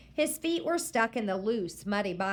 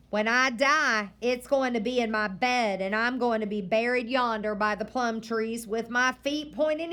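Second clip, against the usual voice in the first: stern grandma; 2 semitones higher, 4 dB louder than usual. Acted. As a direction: warn the boy firmly. Grandma lecturing the boy.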